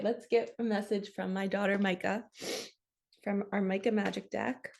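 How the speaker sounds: ordinary delivery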